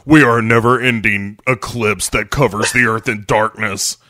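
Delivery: lightly voiced doom-laden band frontman; hint of a hammy doom proclamation; mock doom band. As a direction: declaim it as mock prophecy.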